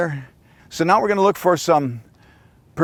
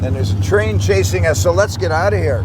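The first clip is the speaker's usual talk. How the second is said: on a bumpy road; 4 semitones higher, 3 dB louder than usual. Real, not acted. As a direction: voice jolted by a bumpy ride. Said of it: "Sorry it's so bumpy".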